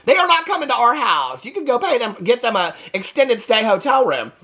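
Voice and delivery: high, indignant imagined wife refusing, half laughing; a hammed-up high-pitched refusal, put your foot down; imagined wife refusing to share the house, mock outraged and high; mock outrage. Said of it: "I'd be like".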